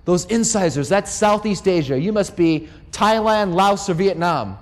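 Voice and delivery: a mild impression of an amazed anthropologist priest; imitating the monk. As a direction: slowly savour each guess like a pleased expert. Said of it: "and he says".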